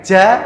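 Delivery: JA with the mouth open and air escaping; wrong open jim. Shown as a demonstration. Teacher showing the mistake, open wrong jim. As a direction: say JA without the tongue blocking the air. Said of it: "itu kan terbuka semua".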